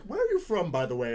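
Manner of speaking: squeaky imitation of him; high mock voice. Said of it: "He's like".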